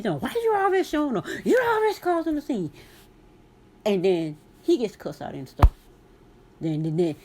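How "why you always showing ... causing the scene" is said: mock husband. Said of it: "He used to get mad at me".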